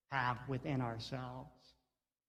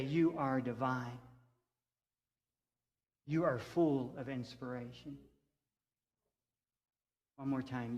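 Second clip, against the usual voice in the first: put-on tender, to inner child. Shown as a demonstration. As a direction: reassure the little one inside. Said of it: "speak to that child that dwells within you".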